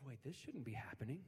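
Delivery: muttered dawning dread; to himself. Retold or imitated. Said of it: "said to himself".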